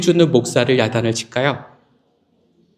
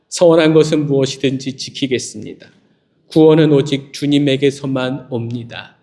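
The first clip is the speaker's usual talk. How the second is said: measured, lower reading of the verses; scripture reading; 3 semitones lower than usual. Acted. Pastor reading scripture to the congregation, steady and lower. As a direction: read the Bible passage aloud to the congregation.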